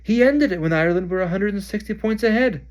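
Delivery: bellow. Acted. Ron bellowing in frustration at Krum's catch. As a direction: rant at the seeker's choice. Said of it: "Ron bellowed".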